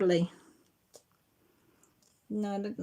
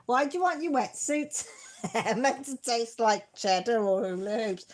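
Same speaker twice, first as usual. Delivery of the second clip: laughing through words; 3 semitones higher than usual. Real, not acted. Laughing at a viewer's comment.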